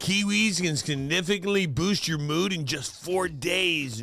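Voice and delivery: lightly voiced hippie, stretching some phrases; a touch of stoner drawl. Host sharing kiwi facts as a hippie, light hippie voice. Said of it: "You didn't like my hippie voice?".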